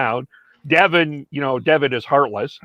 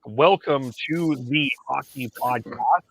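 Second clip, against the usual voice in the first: podcast intro. Acted. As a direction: announce the show, stretching out key words. Opens the show with the host's intro.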